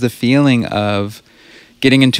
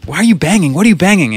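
higher-pitched mock pestering; lightly acted nagging questions; 7 semitones higher, faster than usual. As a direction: imitate someone demanding an explanation. Retelling a nagging movie quarrel.

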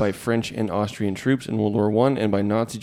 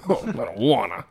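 mock whiny refusal; 4 dB louder than usual. Staring contest mock dialogue.

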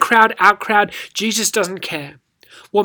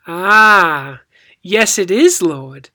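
louder, knowing comeback; witty retort; 5 dB louder, much slower than usual. Shown as a demonstration. The woman answering Jesus' test, quick-witted. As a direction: catch on and fire back cleverly. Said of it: "with a little bit of inflection".

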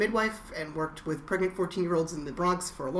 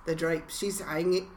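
a hint of a bad British accent; lightly put-on British accent; 4 dB quieter, slower than usual. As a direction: try a British accent and miss. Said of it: "that's my bad British accent".

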